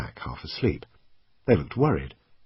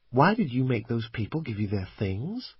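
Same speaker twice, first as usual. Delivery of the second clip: put-on higher-pitched, puzzled girl's question; confused girl; 4 semitones higher than usual. A narrator's reading. Kelly asks about the robbery, confused. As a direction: ask it as a puzzled kid, voice lifted. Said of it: "She sounded confused".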